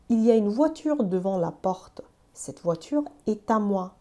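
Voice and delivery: slow, careful French reading; slow French example. Shown as a demonstration. Teacher slowly reads a French example to students, careful and clear. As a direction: read each word out slowly for the learner. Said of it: "مثلاً این جمله رو ببین".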